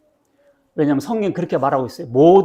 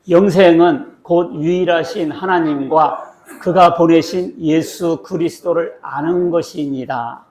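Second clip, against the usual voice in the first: slow, measured verse reading with a firm start; deliberate, drawn-out recitation; scripture read-aloud; 3 dB louder, much slower than usual. Acted. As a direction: lead everyone through the verse, word by word.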